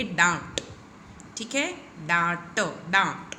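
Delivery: डांट with a light n sound in the vowel; nasal demo. Shown as a demonstration. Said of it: "थोड़ा सा न का स्वर इसके अंदर आएगा". (डांट, आं में हल्का न का स्वर)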